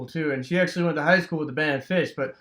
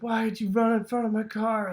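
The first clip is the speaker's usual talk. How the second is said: screaming; 6 semitones higher than usual. Retold or imitated. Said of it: "screaming at Bruno".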